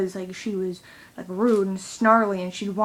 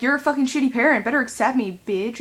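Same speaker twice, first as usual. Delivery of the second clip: retold defiance; 3 semitones higher, 3 dB louder than usual. Teen daughter mock-yelling at her mom, fast and defiant. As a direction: throw it at mom like a challenge.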